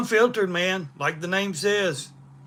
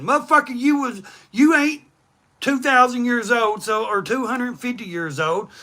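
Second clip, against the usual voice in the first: higher, heated retort; angry outburst; 5 semitones higher than usual. Real, not acted. Ranting at online critics, heated and higher. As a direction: snap back at the complainer.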